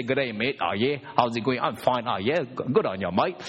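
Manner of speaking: mild mock Australian greeting; a hint of broad Aussie; mate, light Australian twang; imitating Aussie. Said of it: "they say".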